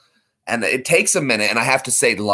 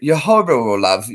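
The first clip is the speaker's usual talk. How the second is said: Simon Cowell impression; 4 dB louder than usual. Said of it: "Simon Cowell".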